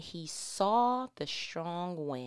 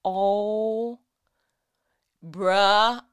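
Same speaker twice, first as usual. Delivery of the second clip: excited; 3 semitones higher, 10 dB louder than usual. Real, not acted. Excited exclamation.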